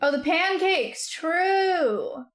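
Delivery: high, slow excited recall; light up remembering it; excited realization. Real, not acted. Sudden recall.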